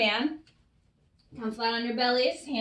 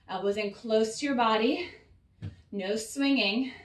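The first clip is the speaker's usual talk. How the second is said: slightly winded coaching; out of breath; 2 semitones lower than usual. Real, not acted. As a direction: talk while catching breath. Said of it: "I'm a little out of breath".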